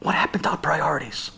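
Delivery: hushed lament. Real, not acted. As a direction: whisper it as a grave lament. Rabbi laments in a hush.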